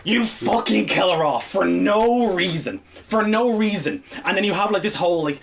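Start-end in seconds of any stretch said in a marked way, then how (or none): 0.0-4.0 slow, heavy, exasperated rant; slow angry rant. Real, not acted. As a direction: drag out every word in disbelief. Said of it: "I am livid".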